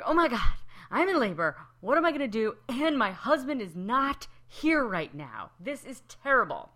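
high, loud hammed-up panic of a woman in labor; playing the frantic mother-to-be for laughs; mock panic.

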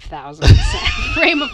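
loud emphasis. Real, not acted. Laughing exaggeration.

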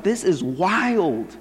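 drawn-out disbelief; amazed. Retold or imitated. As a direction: stretch it out in amazement. Retells own amazed reaction.

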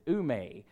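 ume said as oo-MAY; Greek pronunciation. Shown as a demonstration. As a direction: pronounce ume as two syllables, oo-may. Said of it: "that is how you pronounce it".

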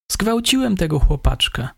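the suspect. A narrator's reading. Suspect confesses.

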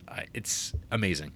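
awed whisper. Real, not acted. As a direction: breathe it out in awe.

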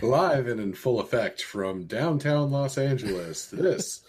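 hammed-up late night announcer; mock talk show host. Cohost introducing Dan as a late night show, mock announcer. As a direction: lay it on like a TV host.

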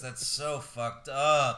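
appalled. Real, not acted. Appalled reaction to cruelty.

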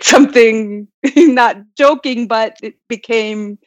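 amused retelling through a laugh. Retold or imitated. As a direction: laugh while saying it. Retelling her own laughing remark.

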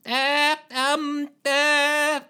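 high hesitant flustered voice; flustered Lushthorpe. Acted. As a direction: dither high and unsure.

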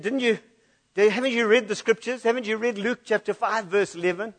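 imagined Peter protesting. Retold or imitated. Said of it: "maybe he would have said something like this".

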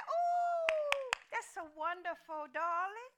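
high, drawn-out delighted ooh; gushing mother. Retold or imitated. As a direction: gush sweetly over their plans. Mother reacting to daughter's movie plan.

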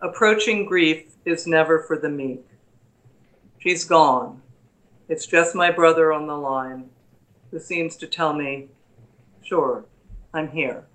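calm, measured recital of a sonnet; poem reading. Acted. Reads her title poem.

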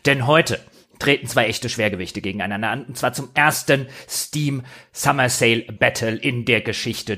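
big ringside fight night announcement; boxing ring announcer. Acted.

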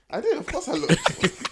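laughing through the admission. Real, not acted. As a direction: giggle out the confession. Laughing admission after being teased.

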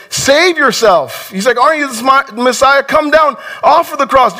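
a taunting criminal's sneer; mocking thief. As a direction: jeer up at the man on the cross. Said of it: "thief berating him".

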